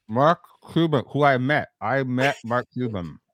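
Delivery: talking through a mouthful of candy; mouth full. Real, not acted. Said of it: "you're milking really bad".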